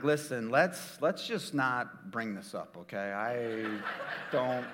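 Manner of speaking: husband pleading in a hush; hushed plea. Retold or imitated. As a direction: beg her quietly to keep it secret. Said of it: "I'm like".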